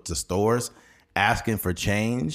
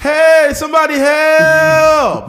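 screaming high and loud for help; slow drawn-out cry for help; mock yell for help; 13 dB louder, much slower than usual. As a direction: holler like a madman outside. Imagined crazy man yelling outside.

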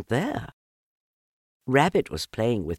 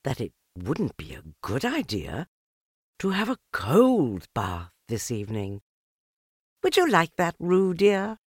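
thoughtful; 7 semitones higher than usual. A narrator's reading. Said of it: "in a thoughtful voice".

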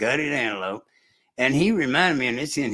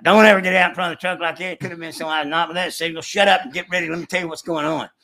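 imitating the driver's scolding, a bit louder and fast; mild mock scolding; 3 semitones higher, 4 dB louder, faster than usual. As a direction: retell the chewing out, quick and sharp. Retold chewing out from driver.

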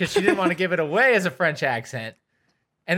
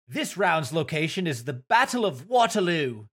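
game announcer. Acted.

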